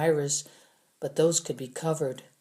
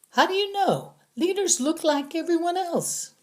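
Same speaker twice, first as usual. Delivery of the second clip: accusing prisoner; 13 semitones higher than usual. A narrator's reading. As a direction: drag out the accusation. Prisoner insists leaders hide.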